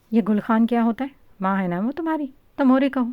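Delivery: loud, sharp scolding of a younger sister; stern big-brother rebuke. A narrator's reading. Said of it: "ساکر نے بالا کو ڈانٹا".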